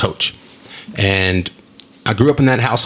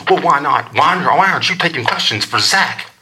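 high, protesting mock mom voice; imitated insistent mom; 4 semitones higher than usual. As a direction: push back like a put-out mom. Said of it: "This is what it sounds like".

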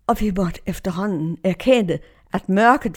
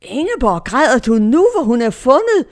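higher, louder disbelieving question; retold puzzled confirmands; 4 semitones higher, 5 dB louder than usual. Confirmands question their crying leader, imitated louder puzzled surprise. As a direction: imitate youngsters baffled by the tears. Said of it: "Og konfirmanderne siger".

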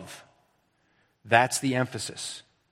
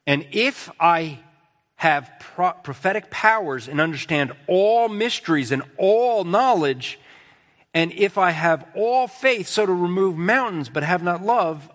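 higher-pitched recitation, leaning on the big words; emphatic scripture reading; 4 semitones higher than usual. Acted. Preacher reads verse two to the congregation, emphatic scripture reading. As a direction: read the verse with measured, weighty emphasis.

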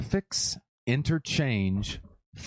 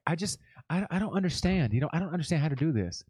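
higher, softer imitation of helplessness; helpless person, imitated; 3 semitones higher, 3 dB quieter, faster than usual. Imitating people who won't look things up, helpless. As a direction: play someone clueless, voice lifted and soft. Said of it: "people will ... be like".

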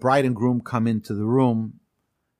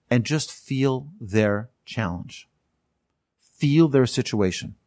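slow, gentle guidance; slower than usual. Shown as a demonstration. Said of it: "teacher guides listeners to feel".

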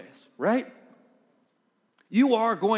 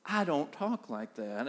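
drawn-out, softer mimicry of his wife; lightly mocking wife voice; teasing wife imitation; 5 dB quieter, slower than usual. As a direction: parrot her words back slowly to pick at her. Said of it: "I'll say it in my voice back to her".

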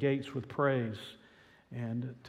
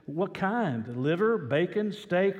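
intrigued butcher; 5 semitones higher, 4 dB louder, slower than usual. Retold or imitated. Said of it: "the butcher was sort of intrigued".

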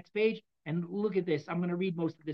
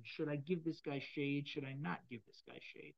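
mock tree musing; 5 semitones lower, 11 dB quieter than usual. Tree imagined deciding about shade.

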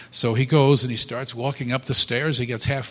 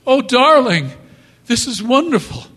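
high, loud, thrilled wife; delighted gush; 12 semitones higher, 11 dB louder than usual. Retold or imitated. Wife thanks her husband for the flowers, high and thrilled. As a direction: gush over the gift.

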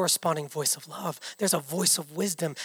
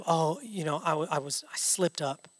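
soft, lower, sheepish mumbled excuse; 3 semitones lower, 7 dB quieter than usual. Acted. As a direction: play someone making a quiet, halting excuse. Acts out someone's sheepish excuse.

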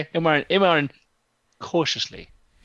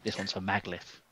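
low and very soft, intimidating; quiet threat; 6 semitones lower, 13 dB quieter than usual. Acted. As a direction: threaten him under your breath. Ilmarin quietly threatens the guard.

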